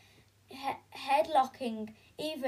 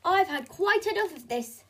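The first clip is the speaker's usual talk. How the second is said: 1 haughty posh mum; 3 semitones higher, 4 dB louder, faster than usual. Acted. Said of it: "Belinda bragged".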